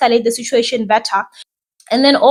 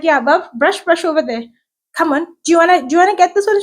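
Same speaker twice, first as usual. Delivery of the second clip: put-on coaxing toddler; 5 semitones higher, faster than usual. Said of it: "I'm like".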